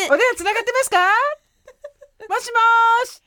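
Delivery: high, bright phone greeting; customer service voice. Pretend. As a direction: call out to the caller brightly. Mock phone call on air.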